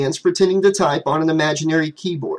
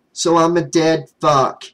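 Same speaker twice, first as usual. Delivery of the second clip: miserable; slower than usual. Acted. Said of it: "he said miserably".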